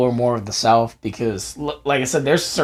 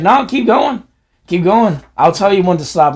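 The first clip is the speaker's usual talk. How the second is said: firm dad; 5 semitones higher, 5 dB louder than usual. Retold or imitated. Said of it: "he was just like".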